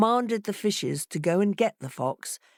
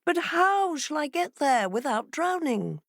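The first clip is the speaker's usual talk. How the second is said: higher fox voice, a touch worried; fox asking; 9 semitones higher than usual. A narrator's reading. Fox asking the fishes about the sea, mildly wary. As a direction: ask it warily.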